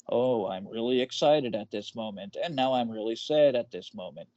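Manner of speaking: droning monotone imitation; flat droning delivery. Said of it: "he has a very monotone voice".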